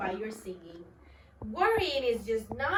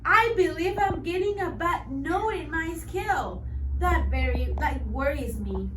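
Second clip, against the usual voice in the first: higher, anxious fretting; worried; 4 semitones higher, 5 dB louder than usual. Acted. Bird frets to himself about his note, anxious. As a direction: fret aloud about the bad note. The speaker voices his worry.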